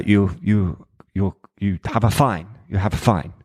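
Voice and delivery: halting, attempted French accent; French policeman, lightly imitated. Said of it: "try and do a French accent".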